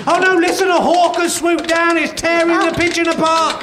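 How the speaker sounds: hammed-up eyewitness panic; mock alarm. Podcaster describes a hawk attacking a pigeon, mock alarm.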